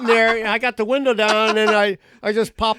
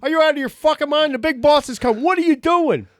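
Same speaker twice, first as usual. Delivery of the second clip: mock yell from the boss, louder and higher; angry boss; 6 semitones higher, 3 dB louder than usual. Boss catching the worker with puppets, mock angry yell. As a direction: scold like a boss who caught you. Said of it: "and the guy goes".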